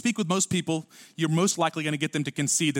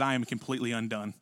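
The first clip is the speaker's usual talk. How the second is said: humbled confession; 8 semitones lower, 7 dB quieter than usual. Acted. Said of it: "And he said".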